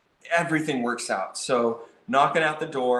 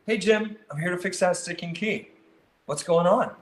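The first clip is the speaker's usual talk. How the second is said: inquisitive; 4 semitones higher than usual. Shown as a demonstration. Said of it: "kind of this inquisitive".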